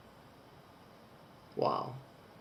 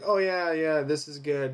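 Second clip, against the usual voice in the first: confident; 3 semitones higher than usual. Retold or imitated. Partner sharing his own comments, mildly confident. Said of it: "confidently, I'd be like".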